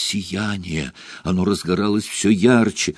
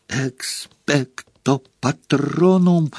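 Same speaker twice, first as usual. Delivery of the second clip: straining shout; 5 semitones higher, slower than usual. A narrator's reading. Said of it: "надрывался Гарри".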